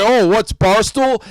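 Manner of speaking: slow, drawn-out mock cluelessness; feigned innocence. Host repeating a rival's fake ignorance, slow and mocking. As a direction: stretch it out, playing dumb with a sneer. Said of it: "you're gonna come say".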